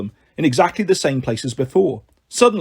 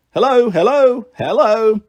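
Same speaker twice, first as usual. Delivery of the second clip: sheep voices; 6 semitones higher, 5 dB louder than usual. Acted. Three sheep greeting together.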